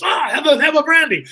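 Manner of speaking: high, loud mock French accent; French host. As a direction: offer it heartily in a put-on French accent. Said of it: "Stefan goes a little bar".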